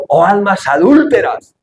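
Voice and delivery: stern rebuke. Acted. Quoting James' rebuke.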